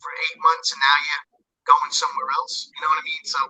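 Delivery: tin can phone. Real, not acted. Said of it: "You sound like you're talking into a tin can".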